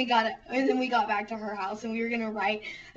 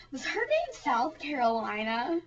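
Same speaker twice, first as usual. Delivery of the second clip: retold clueless question, pitched up; puzzled question; 4 semitones higher than usual. Asking Jessie on the way to the car, clueless puzzlement. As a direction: ask it in mock innocent puzzlement.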